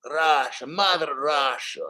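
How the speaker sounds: lightly put-on Russian accent; Russian accent slipping towards German; mock Russian accent. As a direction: draw it out in a hammy Russian accent. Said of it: "separating my German accent from my Russian accent".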